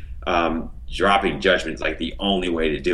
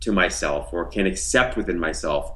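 slow saying; 2 semitones lower than usual. Shown as a demonstration. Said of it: "Sometimes we say".

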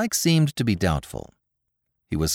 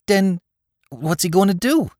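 put-on higher, eager New York street kid; excited young New York tough; Bowery boy Spike; 11 semitones higher, 3 dB louder than usual. A narrator's reading. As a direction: rattle it off like a breathless Bowery lad. Spike voiced by narrator.

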